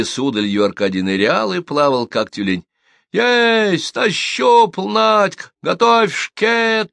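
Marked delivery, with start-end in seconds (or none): 3.1-6.9 high, loud triumphant shout; yelling. A narrator's reading. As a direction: bellow it out from the water. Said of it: "заорал Аркадий". (громкий торжествующий крик)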